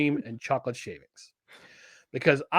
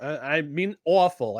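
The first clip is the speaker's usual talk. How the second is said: New Jersey accent on awful. Shown as a demonstration. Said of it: "I'm using my Jersey accent to say it".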